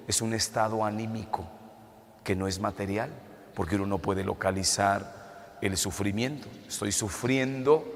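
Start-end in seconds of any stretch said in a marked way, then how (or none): none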